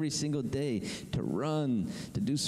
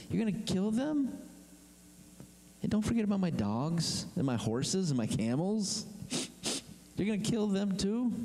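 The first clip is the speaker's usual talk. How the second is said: high, mock-outraged wailing at Moses; whiny complaining Israelite; 8 semitones higher than usual. Israelite parent whining to Moses about the babies, high mocking wail.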